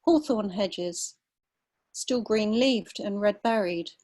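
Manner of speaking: measured literary reading with unhurried pauses; story reading. Acted. Writer reading her piece about a dawn walk to listeners, calm and measured.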